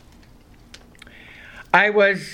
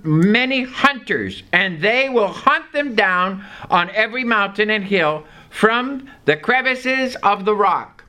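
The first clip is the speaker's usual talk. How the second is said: a slightly raised, measured Bible reading; scripture reading; 2 semitones higher than usual. Acted. Preacher reading Jeremiah to the congregation, measured and raised. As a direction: read the verse out to the congregation.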